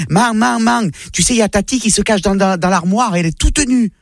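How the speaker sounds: put-on a kid telling on his aunt; petit garçon. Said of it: "son fils qui vient la voir". (petit garçon qui rapporte)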